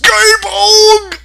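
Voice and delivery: hammed-up loud summons; summoning shout. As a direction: call the robot like a battle cry. Mech summons a robot.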